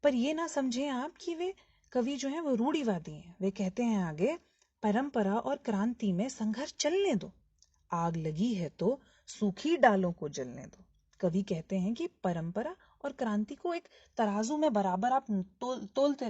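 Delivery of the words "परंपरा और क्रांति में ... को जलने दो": measured, emphatic verse reading; poem recitation. Acted. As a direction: recite each phrase deliberately, with pauses. Recites next lines of poem. (कविता पाठ)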